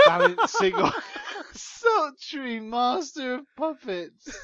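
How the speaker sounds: very high squeal breaking into laughter; hysterical, high-pitched. Real, not acted. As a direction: fight to read it while cracking up. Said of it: "hysterical, high-pitched voice".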